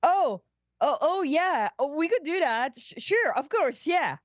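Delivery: high, excited stammer; flustered and eager; grinning, caught on. Acted. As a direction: fumble the yes with a grin. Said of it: "Boimler suddenly catches on. He grins".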